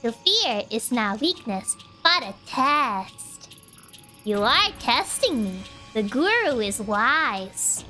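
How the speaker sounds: calm and eerie, like a cult elder; creepy calm cultist. Acted. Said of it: "you do this cultist voice is too good".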